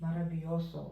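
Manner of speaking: very slow, syllable by syllable; slow demo. Shown as a demonstration. Teacher repeating a word for students, very slow. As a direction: drag the word out for learners. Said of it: "മര-, മാര".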